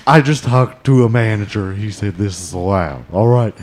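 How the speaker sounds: demanding customer voice; pushy customer voice, hint of anger; angry soccer mom voice. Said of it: "That was your angry soccer mom voice".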